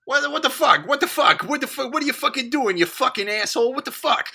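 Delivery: mock bar brawl shout. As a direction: play the furious guy in the bar scene. Acting out Boston bar scene.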